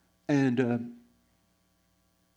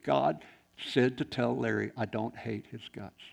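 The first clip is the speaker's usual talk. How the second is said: slow and hushed, imitating the friend; quiet, gently weighted quote; retold tender message; 4 dB quieter, slower than usual. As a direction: deliver the retold message softly, word by word. Retelling friend's tender, tearful message.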